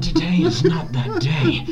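slow, shouted heroic line; rally the army; heroic speech. Acted. Aragorn speech quote.

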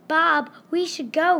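high, eager squeak. A narrator's reading. Ralph urges his brother toward the show, squeaking. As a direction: squeak the suggestion to your brother. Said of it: "Ralph squeaked".

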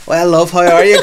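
high, loud, sugary pensioner greeting; sweet old woman. Retold or imitated. Pensioner women greeting the visitor sweetly: high, loud mock-sweet voice. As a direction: switch to syrupy politeness mid-swearing. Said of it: "they're like".

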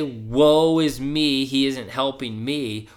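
drawn-out, mock self-pitying wail; hammed-up woe-is-me; mock lament. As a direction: stretch it out like a complainer. Voices an imagined self-pitying complainer.

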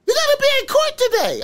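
high, loud, rushed mock alarm; panicking caller. Defender tells client he is due in court, panicking. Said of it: "Bitch just called me panicking".

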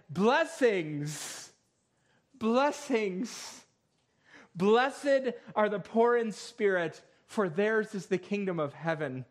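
ringing, repeated pulpit proclamation; scripture recitation. Acted. Preacher recites Jesus' first public message, proclaimed blessings. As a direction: proclaim each blessing, lifting its opening.

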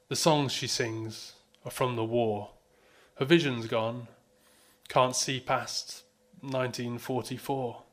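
measured spoken-word poem reading; hushed raw poetry. Acted. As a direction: read it slow and raw, line by line. Performs his dementia poem.

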